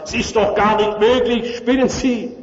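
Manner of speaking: high, indignant outburst, a touch far from his own voice; exploding high priest. Retold or imitated. High priest Hannas bursting out at the soldier, indignant and high. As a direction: blow up in disbelief at the messenger. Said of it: "der explodiert".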